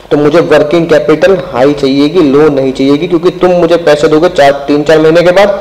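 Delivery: ordinary delivery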